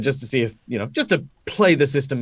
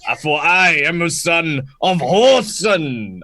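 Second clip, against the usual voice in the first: heroic Brolga line; slower than usual. Acted. Brolga reassuring the princess he can handle the fish. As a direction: declaim it slowly like a brave fish-warrior. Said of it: "I'll be like".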